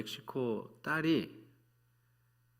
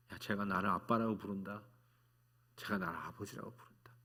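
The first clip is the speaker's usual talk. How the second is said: moved father; 4 dB quieter than usual. Retold or imitated. God voiced as moved father.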